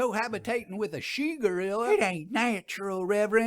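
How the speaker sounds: high, mocking rural heckler; heckling townsfolk. A narrator's reading. Townsfolk jeer at the minister, lightly voiced high heckle. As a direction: jeer at the preacher from the crowd.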